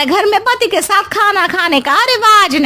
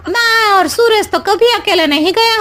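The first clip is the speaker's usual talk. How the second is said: mocking laugh. Megha laughs at the family.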